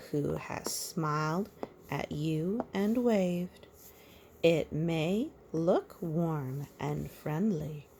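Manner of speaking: slow, sing-song picture-book reading; measured storybook rhyme; reading to a child. A narrator's reading. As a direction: read the rhyme gently to a little one. Reads the rhyming picture book.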